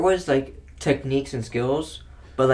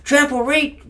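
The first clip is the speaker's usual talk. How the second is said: much higher, loud sneering listing; mocking keyword list; 12 semitones higher, 6 dB louder, slower than usual. Mocking the card rules to a friend, high and sneering. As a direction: rattle it off like a smug card.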